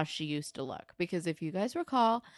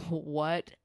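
slow, lowered disbelief; imitated stunned reaction; 2 semitones lower, much slower than usual. Jimmy stunned at seeing Ashley, slow disbelief. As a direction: space the words out, stunned. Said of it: "And he's like".

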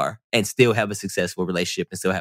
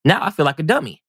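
higher-pitched mock realization; comic self-reproach, voice jumping up; mock dismay; 7 semitones higher than usual. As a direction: act out a sudden "oops" moment. Acted sudden realization in his story.

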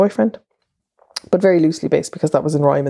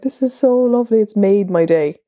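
gushing quote; 5 semitones higher than usual. Retold or imitated. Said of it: "I was like".

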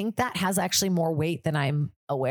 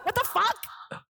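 indignant; 5 semitones higher than usual. Retold or imitated. Griping about the manager's favoritism, outrage building. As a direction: rant at the manager, rising to disbelief. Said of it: "I felt like I'm the black sheep".

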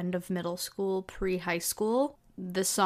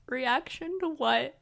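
holding back tears; 5 semitones higher, slower than usual. Retold or imitated. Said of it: "I'm holding back tears".

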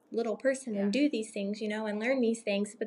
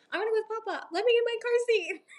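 put-on much higher small-child voice; imitating a little kid; 12 semitones higher, 6 dB louder, faster than usual. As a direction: chirp it like an eager toddler. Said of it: "they'll be like".

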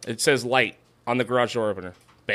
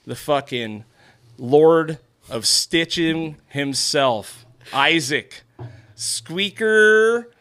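hype announcer; 3 semitones higher, much slower than usual. Acted. Hypes the guest intro.

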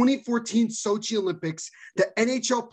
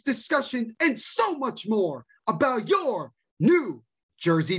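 hyped podcast host intro; fired up. Real, not acted. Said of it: "you're pretty fired up today".

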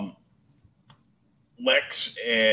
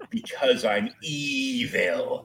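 slow, smug evil villain; drawn-out smug evil line; much slower than usual. Retold or imitated. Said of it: "Luthor walks out".

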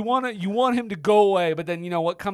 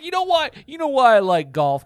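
high, irritated retelling; mock annoyed; 6 semitones higher, 6 dB louder than usual. Co-host retells the villain fed up with questioning, mock annoyed. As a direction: mimic someone getting fed up, pitched up. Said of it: "he's getting annoyed with Stallone's questions".

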